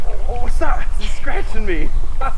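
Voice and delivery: real startled ow; scratched by the dog. Real, not acted. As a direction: yelp as the claws dig in.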